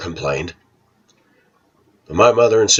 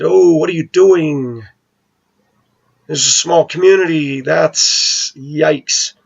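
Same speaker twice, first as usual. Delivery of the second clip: alarmed reaction; 8 semitones higher, slower than usual. Retold or imitated. Son alarmed at mother's move.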